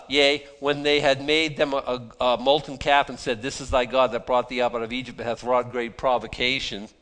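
steady public Bible reading; scripture reading. Acted. Preacher reading the golden calf passage to the congregation, firm recitation. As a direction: read the old verse out firmly.

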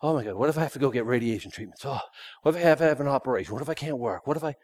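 rushed, fretful string of what-ifs; nervous mock rambling, fast; mock worrier. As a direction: spiral into imagined panic. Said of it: "I hear somebody get sick".

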